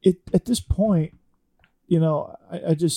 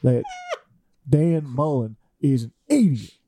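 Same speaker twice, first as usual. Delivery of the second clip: put-on South Georgia accent. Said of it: "give us a South Georgia accent".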